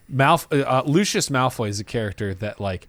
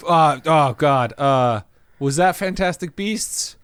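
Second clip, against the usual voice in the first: flustered; 4 semitones higher, slower than usual. Acted. Acting out a confused Yates.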